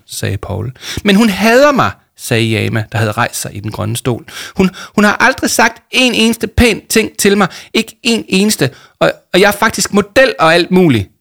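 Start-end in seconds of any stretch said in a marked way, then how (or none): 1.0-1.9 high, loud outburst; upset protest. A narrator's reading. Upset girl protests in story. 4.6-11.1 high, loud, stumbling rant; indignant outburst. A narrator's reading. Upset girl rants in story.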